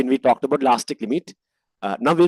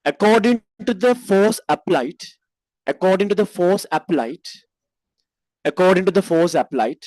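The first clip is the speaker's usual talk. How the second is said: dictating; 2 semitones higher than usual. Shown as a demonstration. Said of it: "write like this".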